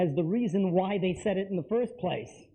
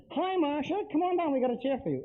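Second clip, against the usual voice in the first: friendly welcome; 6 semitones higher than usual. Shown as a demonstration. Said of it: "you go".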